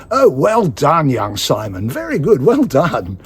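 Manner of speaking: hearty director praise. Retold or imitated. Director praising young Simon, in a hammed-up hearty voice. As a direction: play the director patting him on the back. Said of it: "He went".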